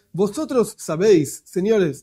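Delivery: mock Castilian Spanish accent, lightly done; a playful hint of a Spain Spanish accent. Teacher mocking how Spaniards talk, light Spain Spanish accent. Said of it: "en España hablan así".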